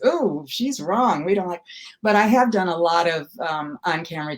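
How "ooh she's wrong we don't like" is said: slow, drawn-out "Ooh" of a picky judge; lightly voiced disapproving casting panel; mock rejection. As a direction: act out a drawn-out verdict. Acts out casting people rejecting her.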